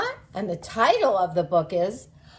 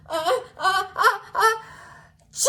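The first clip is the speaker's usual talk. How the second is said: fake sneeze; 9 semitones higher, faster than usual. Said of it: "I feel a sneeze coming on".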